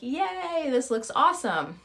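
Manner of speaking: excited. Retold or imitated. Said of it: "I'm like".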